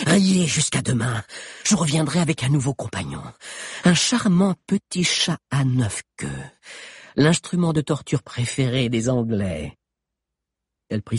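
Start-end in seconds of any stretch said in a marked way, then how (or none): 0.1-9.8 high, loud cold threat; menacing witch. Acted. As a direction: promise more pain. (menace froide de sorcière)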